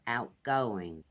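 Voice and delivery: outgoing said as one smooth word; run together. Shown as a demonstration. Teacher showing learners outgoing said all together. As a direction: blend outgoing into one sweep. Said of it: "We kind of say it all together".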